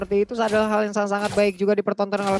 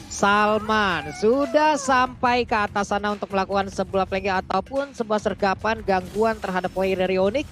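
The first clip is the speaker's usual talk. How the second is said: live play-by-play. Acted. Live MPL match play-by-play.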